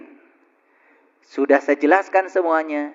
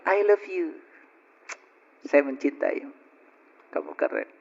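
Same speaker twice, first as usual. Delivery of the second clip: soft, fading to a whisper on the last words; tender to own body; 13 dB quieter than usual. Pretend. Preacher models loving words to the body, softly whispered.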